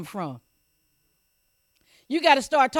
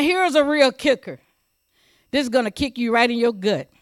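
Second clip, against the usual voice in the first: usual speaking voice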